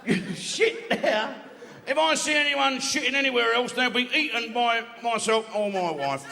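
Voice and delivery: lion proclaiming the rules, mildly pompous; pompous lion announcement. Acted. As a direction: announce it like a fussy sergeant. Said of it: "He said".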